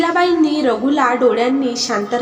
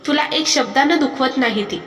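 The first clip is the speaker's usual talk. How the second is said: said loudly; 3 semitones higher than usual. Acted. Husband scolding wife over his mother, voice raised. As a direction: scold her, voice raised but not yelling. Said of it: "Raghu मोठ्याने म्हणाला".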